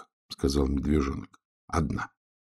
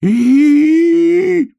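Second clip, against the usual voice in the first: piercing, much higher, louder squeal; long high-pitched shriek; 11 dB louder than usual. A narrator's reading. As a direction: squeal as if pinched. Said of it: "заверещал заяц".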